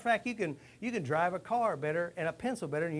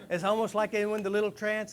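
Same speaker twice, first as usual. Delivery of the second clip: talking on through laughter, louder; laughing; 5 semitones higher, 6 dB louder than usual. Real, not acted. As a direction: keep the laugh in the words.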